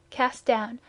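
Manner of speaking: usual speaking voice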